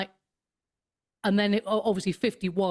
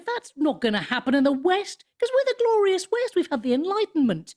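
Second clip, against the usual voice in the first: high, mock-proud voice that peaks on "glorious West"; smug mockery; 9 semitones higher than usual. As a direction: lay on the smug pride of a self-satisfied Westerner. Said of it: "they were smugly going".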